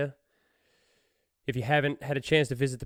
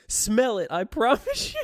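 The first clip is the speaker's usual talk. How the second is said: mock pleading; 8 semitones higher, 4 dB louder than usual. Voicing the woman pleading.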